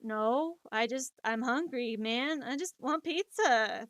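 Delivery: lightly spaced-out stoner voice, slowing at the end; stoned. Retold or imitated. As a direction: plead for food as if slightly stoned. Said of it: "you sound stoned".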